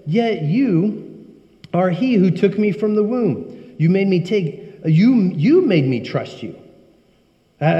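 slow, lifted psalm reading; solemn Bible reading voice; scripture reading. Acted. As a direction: read the verses slowly, reverently. Reads psalm aloud.

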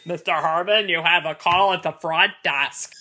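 low hushed front desk page; page a guest over a lobby speaker. Retold or imitated. Movie quote, lobby page.

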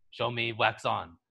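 slow, measured command; lightly voiced mentor testing his pupil; serious Mister Miyagi line. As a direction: draw it out seriously. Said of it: "it gets really serious".

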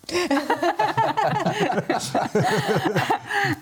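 big high burst of laughter; hearty laugh. Real, not acted. Laughs after husband's blunt answer.

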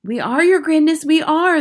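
high, eager chorus reply; crying out. Acted. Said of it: "they cried".

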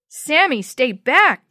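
a loud, urgent warning shout. Acted. Jenny warning Sammy off the cracking boards, loud shout. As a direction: stop him with your voice. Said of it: "Jenny shouted".

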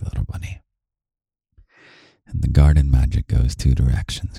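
breathy words right in the ear. Real, not acted. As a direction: close intimate whisper. Whispered loving talk to listener.

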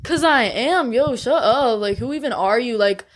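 snapping back at a peer; heated family shouting. Real, not acted. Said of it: "Does everybody need to fight in here today?".

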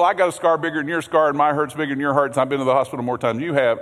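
fast, one-upping boast; mock bragging. Pastor mimics churchgoers comparing their ailments, fast mock brag. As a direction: rattle it off like a patient outdoing everyone. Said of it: "have you heard people talk like that?".

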